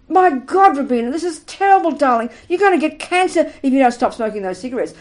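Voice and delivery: a doctor's dramatic "My God, Robina" warning. Pretend. Teacher voicing a doctor warning a smoker, alarmed. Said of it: "You go to your doctor".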